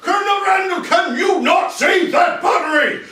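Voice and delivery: high, loud shout across a battlefield; yelled command. Acted. General yelling out to a colonel, high urgent shout. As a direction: bellow it as the general. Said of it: "he yells out".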